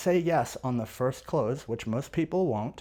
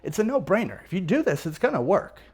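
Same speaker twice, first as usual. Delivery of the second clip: higher, lilting reassurance; reassuring; 3 semitones higher than usual. Acted. Salesperson telling a worried buyer it will work, reassuring. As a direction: make it sound like a simple no-brainer. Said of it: "I'm reassuring him. I'm just telling him".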